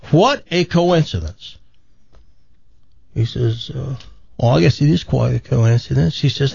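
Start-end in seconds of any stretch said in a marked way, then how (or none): 0.1-1.6 higher, lightly marvelling; acted mild amazement. Woman at a bar marvels to a stranger, mildly amazed. 4.4-6.1 lightly voiced Australian-British accent; put-on Australian-British accent. Man at the bar answers a woman, Australian-British accent. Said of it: "That accent".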